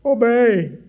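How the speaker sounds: put-on high shrill kid's scream of the word; child's shriek. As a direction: shriek it like an upset little boy.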